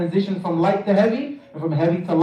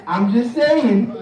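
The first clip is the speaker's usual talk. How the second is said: amused, slowed and pitched higher; laughing; 4 semitones higher, slower than usual. Real, not acted. Teacher laughing at his own joke with students. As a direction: say it through laughter.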